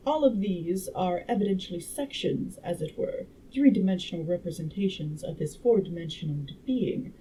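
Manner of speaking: measured audiobook reading; story narration. A narrator's reading. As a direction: read the scientist's explanation out like a storyteller.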